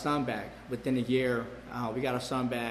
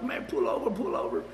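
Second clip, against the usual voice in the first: friends yelling; 6 semitones higher than usual. Retold or imitated. Panicked friends in the car.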